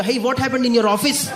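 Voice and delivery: put-on high, very slow accented English; curious caller asking about the noise; hammed-up foreign accent; mock foreign customer. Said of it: "customer ने मेरे से पूछा".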